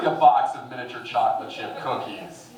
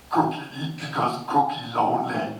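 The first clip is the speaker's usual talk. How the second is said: Cookie Monster voice. Pretend.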